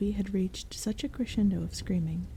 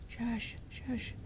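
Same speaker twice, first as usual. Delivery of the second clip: goblin shushing; 4 semitones higher, 8 dB quieter than usual. Acted. Goblin hushing others.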